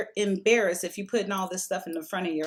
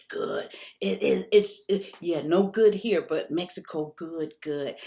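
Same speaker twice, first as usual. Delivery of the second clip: put-on broken English Mexican accent. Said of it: "he's talking to me in his broken English".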